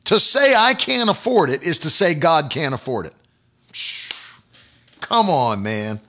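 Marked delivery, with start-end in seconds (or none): 3.7-6.0 dismissive breathy scoff, low. Real, not acted. Preacher scoffing at doubters, dismissive. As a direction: scoff it away, come on man.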